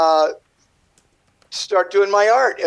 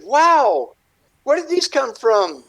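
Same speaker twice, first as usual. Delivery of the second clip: retold amazement; 5 semitones higher, slower than usual. Retelling amazement at seeing the art.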